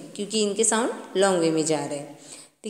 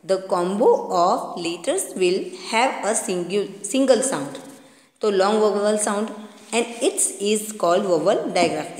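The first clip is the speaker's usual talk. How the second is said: slow reading aloud; much slower than usual. Shown as a demonstration. Teacher to children reading the textbook definition, slowly. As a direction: read the definition word by word, very slowly. Reads English text slowly.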